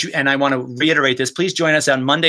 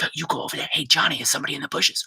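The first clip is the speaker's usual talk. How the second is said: mock sentinel whisper; 5 dB quieter, faster than usual. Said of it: "these little things like".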